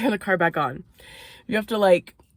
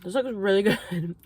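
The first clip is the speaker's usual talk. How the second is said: softer, a laugh breaking into the line; 4 dB quieter than usual. Real, not acted. Vlogger repeating her food remark, softly laughing. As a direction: giggle through the word good. Tasting food, says it twice.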